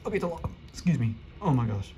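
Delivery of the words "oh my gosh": burping. Real, not acted. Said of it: "I'm burping".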